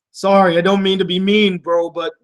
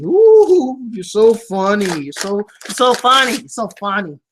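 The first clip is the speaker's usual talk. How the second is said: sarcastic mock praise; 3 semitones higher, 4 dB louder than usual. Mocking the childish letter-writer, sarcastic. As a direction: tease the letter writer, sing-song and mocking.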